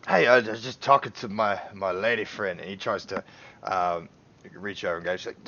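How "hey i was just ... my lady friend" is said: put-on slurred drunk patron, loud; drunk slurring. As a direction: slur it like a drunk. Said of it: "he's properly slurring".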